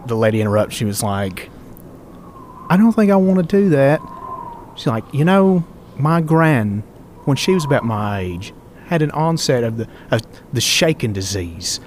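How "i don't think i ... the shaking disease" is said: menacing assassin taunt. Acted. Assassin taunts captive with dagger.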